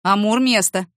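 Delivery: loud firm dog command. Acted. Man commanding his shepherd dog, loud and firm. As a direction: order the shepherd down. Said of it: "приказал овчарке".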